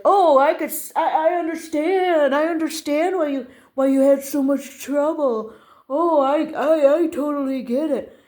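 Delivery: acted conciliatory store clerk; understanding attendant. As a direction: concede with emphatic sympathy. Voicing the attendant's sudden understanding.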